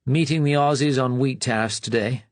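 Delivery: a tired upper-class English civil servant; weary upper-class sigh. A narrator's reading. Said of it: "he sighed".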